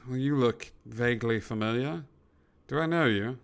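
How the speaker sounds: older British gentleman, lightly voiced; hint of a polite British accent. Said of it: "the older gentleman sort of turns around".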